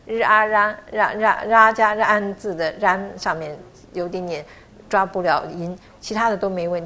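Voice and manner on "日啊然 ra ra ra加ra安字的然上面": 然 split into 日 and 啊 then joined, said slowly; slow spelled-out 然. Shown as a demonstration. Teacher spelling out 然 slowly for the class. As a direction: break 然 into its parts slowly. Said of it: "大家都在然字上面".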